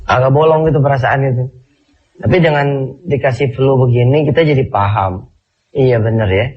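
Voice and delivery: stuffy nose, talking through a cold; blocked nose. Real, not acted. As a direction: sound congested, nose blocked. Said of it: "saya alhamdulillah pagi ini lagi dikasih hidung mampet".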